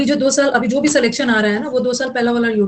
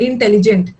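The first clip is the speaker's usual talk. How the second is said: halting, in syllables. Shown as a demonstration. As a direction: break इंटेलिजेंट after the first syllable, in-telligent. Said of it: "रुक रुक के बोल रहे हो".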